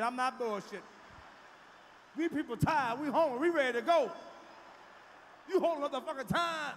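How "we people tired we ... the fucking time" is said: loud fed-up rant at the heifer; mock angry yell. Comic yelling at the woman holding up the line. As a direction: yell that everyone is tired and hungry.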